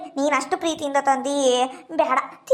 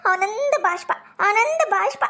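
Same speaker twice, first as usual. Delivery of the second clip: teary, a little higher, moved by his love; tearful; 3 semitones higher than usual. Acted. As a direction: speak through happy tears, voice catching. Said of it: "ಯಾಕ್ ಕಣ್ಣೀರ್ ಹಾಕ್ತಿ?". (ಆನಂದದ ಕಣ್ಣೀರಿನ ಧ್ವನಿ)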